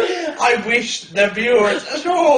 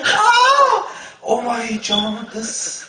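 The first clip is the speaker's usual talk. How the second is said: laughing; 3 semitones lower, slower than usual. Real, not acted. Laughing fit.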